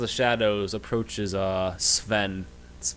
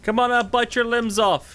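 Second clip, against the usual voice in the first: high, loud yell at the enemy; battle cry; 5 dB louder than usual. Acted. Archer charging Carl with a short sword, shouted battle cry. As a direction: yell it wildly mid-swing. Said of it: "Carl, going".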